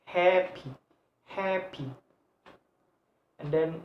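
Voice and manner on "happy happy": HAPPY in two distinct beats; split into syllables. Shown as a demonstration. Teacher showing two syllables, HAPPY split in two. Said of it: "Two syllable".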